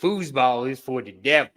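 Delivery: lightly voiced mama's boy; a hint of the Waterboy's earnest warning; Bobby Boucher. Host trying the movie quote, lightly voiced Bobby Boucher. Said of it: "Bobby Boucher impression".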